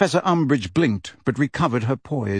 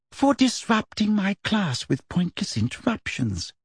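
smooth; 8 semitones higher than usual. A narrator's reading. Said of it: "said Professor Umbridge smoothly".

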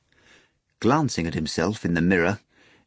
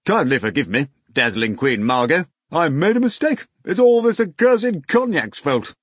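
high fawning apology; groveling drunk; 5 semitones higher, 3 dB louder than usual. A narrator's reading. The drunk man begs Queen Margot's pardon, fawning. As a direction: grovel tipsily.

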